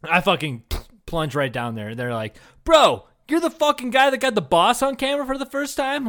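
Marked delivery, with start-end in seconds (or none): 2.7-6.1 high, loud amazed "bro"; hammed-up starstruck excitement; awestruck fan. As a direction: gush at a legend in disbelief. Acted demons amazed at newcomer.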